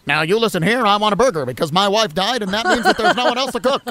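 lightly voiced vintage film tough guy; mock 1940s husband placing an order; a hint of gangster patter; old-movie guy voice. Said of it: "I like doing that voice".

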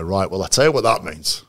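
imitated West Yorkshire player; broad West Yorkshire accent. Player translating for the coach, broad West Yorkshire accent. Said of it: "in his broad West Yorkshire accent".

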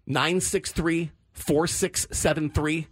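slow, deliberate number dictation; slow and clear. Shown as a demonstration. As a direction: spell out each digit slowly. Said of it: "Can I get the number one more time".

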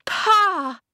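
loud, high cry for father. A narrator's reading. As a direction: shout it out, pitched right up. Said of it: "and then louder".

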